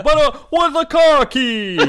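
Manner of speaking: high, slow mock Boston accent. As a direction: drawl it like a Boston guy. Continues the accent bit.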